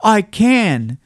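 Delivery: high, loud, insistent little rabbit. A narrator's reading. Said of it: "said the little rabbit".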